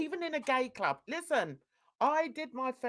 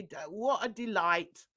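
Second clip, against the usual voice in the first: normal talking voice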